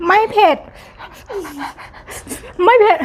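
loud, high mock echo of the child's "ไม่เผ็ด"; teasing echo. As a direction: throw the kid's words back at them, playfully. Mother teasingly echoes child's claim. (ล้อเลียนเสียงดังแหลม)

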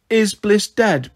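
put-on high, slow little-girl voice, a little lost; a small girl's frightened question, drawn out; small child asking. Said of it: "Pixie asked".

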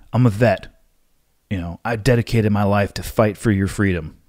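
a light mock of a self-important vet; entitled veteran voice. Mocking a veteran who brags about his service, lightly put-on voice. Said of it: "I'm making a different noise for that voice".

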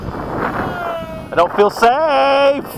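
high, very slow mock wail; drawn-out mock panic. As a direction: stretch out the fake panic.

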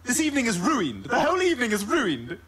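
"ruined" said as roo-IND, two syllables stressed on the end; Stewie's strange "ruined"; odd "ruined". Acted. Stewie ruins the word "ruined" to needle Brian. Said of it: "Why are you saying it like that?".

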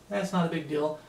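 mock-nonchalant shrug; casual, dismissive imitation. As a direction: toss it off as no big deal. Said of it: "Even people that are nonchalant".

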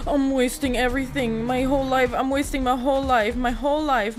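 frantic lament. Real, not acted. Player bemoans wasted arrows, frantic lament. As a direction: wail melodramatically about the waste.

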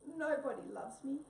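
Tabby wailing from the tree, crying. Acted. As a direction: cry it out from up the tree. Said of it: "sat there crying".

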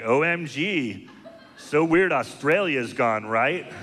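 put-on slow, valley-girl tweet voice; airhead tweeter. A shallow Twitter friend casually reporting the apocalypse, valley-girl voice. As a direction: drawl it like a clueless influencer. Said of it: "it's gonna be like".

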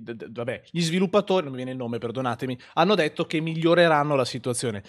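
ordinary delivery

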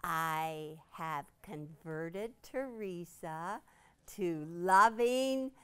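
slow, loud, drawn-out brag; triumphant. Real, not acted. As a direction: announce the big win proudly. Triumphant proud announcement.

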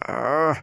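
restrained agonized groan; pained scream. A narrator's reading. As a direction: cry out as if collapsing. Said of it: "he screamed".

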